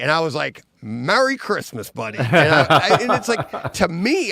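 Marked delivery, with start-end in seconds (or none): 0.8-2.2 proud. Retold or imitated. Handing over gift proudly. 2.2-4.3 high, laughing through the words; laugh, overcome remembering it; choked-up giddy laughter; emotional laugh. Real, not acted. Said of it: "I'm getting chills thinking about it".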